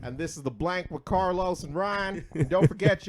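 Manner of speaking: high, loud announcing; hyped show sign-off. Real, not acted. Host signing off to listeners, loud high announcing. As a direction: announce the show at full volume.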